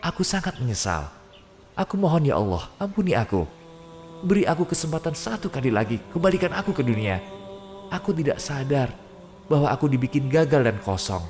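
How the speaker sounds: high, pleading cry to God; anguished prayer of the dead; desperate begging. Acted. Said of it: "Kau memohon".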